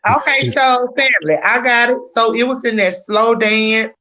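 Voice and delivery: talking while eating; mouth full. Real, not acted. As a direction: talk through a mouthful of food. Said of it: "I just had my mouth full".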